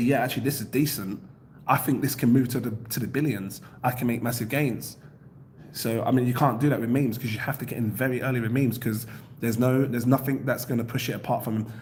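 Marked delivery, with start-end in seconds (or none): none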